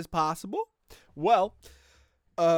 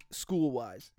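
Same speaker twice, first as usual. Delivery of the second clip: whispered aside; 5 semitones lower, 4 dB quieter than usual. Real, not acted. Confessing bad grades.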